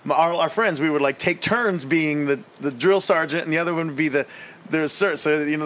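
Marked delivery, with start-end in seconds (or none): none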